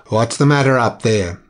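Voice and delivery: a hint of a deep voice from below; understated deep-voiced captain asking; lightly voiced deep captain. A narrator's reading. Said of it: "asked a deep voice from below".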